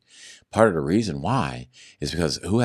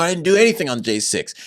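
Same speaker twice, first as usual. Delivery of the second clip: indignant protest; 12 semitones higher, 5 dB louder than usual. Retold or imitated. He protests arrest to agents.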